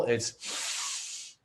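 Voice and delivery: hard breath pushed out through the nose; forceful nasal exhale. Shown as a demonstration. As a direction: push the air out sharply through the nose as a demo. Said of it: "powerful breath out your nose".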